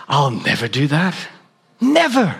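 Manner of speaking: self-assured reader swearing never; mock self-righteous. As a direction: sneer it out like you're better. Self-righteous vow voiced.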